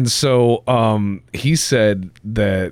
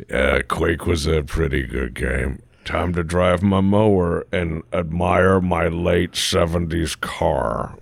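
lower, slow mock bloke voice; mock dull bloke; 4 semitones lower than usual. Joking about a middle-aged man's hobbies, lower and slow. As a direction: drop low and plod through it like a bored bloke. Mocking a type of guy.

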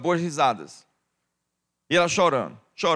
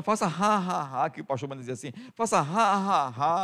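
demo laugh "ha ha"; 4 dB quieter than usual. Shown as a demonstration. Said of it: "dê uma risadinha".

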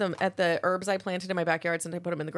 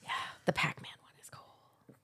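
whisper; 3 semitones lower, 12 dB quieter than usual. Real, not acted. Whispered aside about Legos.

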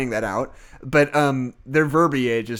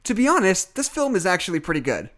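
mock reviewer voice; 5 semitones higher than usual. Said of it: "And they say".

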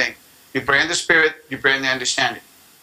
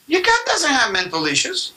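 emphatic correction; 8 semitones higher than usual. Real, not acted. Emphatic rebuttal, pitch jumps high.

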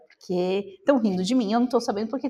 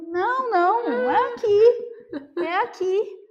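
insistent protest; 10 semitones higher, 4 dB louder, slower than usual. Retold or imitated. Insisting to shopkeepers, near tears.

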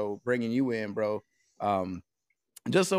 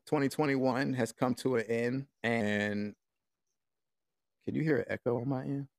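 alien voice filter. Real, not acted. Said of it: "Sorry about that alien voice".

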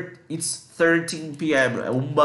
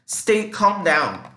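slow demo; 4 semitones higher, much slower than usual. Shown as a demonstration. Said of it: "uma expressão que eu falei aqui".

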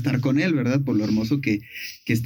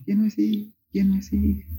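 echoed shout; 5 semitones higher than usual. Retold or imitated. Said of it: "vuelve a gritar Ninfa Eco".

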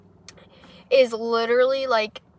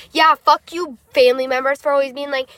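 heated, louder mini rant; playful rant; 3 semitones higher, 6 dB louder than usual. Real, not acted. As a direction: tell the family off, half joking. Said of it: "that was my little rant".

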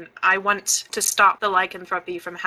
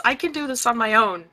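petulant; 4 semitones higher than usual. Acted. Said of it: "Very petulantly".

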